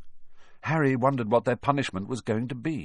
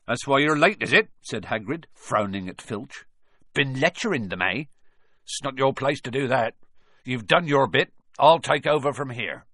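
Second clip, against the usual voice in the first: louder, higher gruff giant; gruff rebuke; 5 semitones higher, 3 dB louder than usual. Acted. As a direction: put him in his place. Hagrid rebukes Filch.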